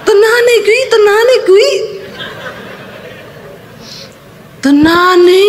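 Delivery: high, frantic re-enactment; excited insistence. Retold or imitated. Husband insisting to his wife it is real, high excited voice.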